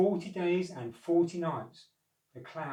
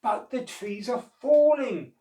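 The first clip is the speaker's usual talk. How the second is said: high, loud warning cry; urgent call; 9 semitones higher, 8 dB louder than usual. A narrator's reading. Unicorns warning the monkeys, high and loud. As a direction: call out in alarm. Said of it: "called the unicorns".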